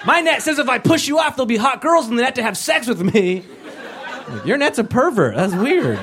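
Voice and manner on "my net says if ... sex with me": mock creep. Pervert believer quoted.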